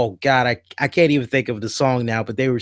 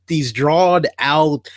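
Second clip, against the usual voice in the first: amused whisper; slower than usual. Real, not acted. Laughing whisper mid description.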